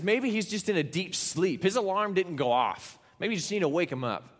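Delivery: taunting. Acted. Elijah teasing prophets about sleeping god, taunting. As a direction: needle them with pretend helpfulness. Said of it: "he's taunting them".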